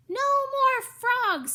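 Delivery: high loud firm refusal; firm child voice. Acted. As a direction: put your foot down like a little girl. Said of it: "said Lenore".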